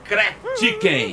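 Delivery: slow, laughing go at saying CRACK CHICKEN; careful English pronunciation. Real, not acted. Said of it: "É isso, Chico, a pronúncia?".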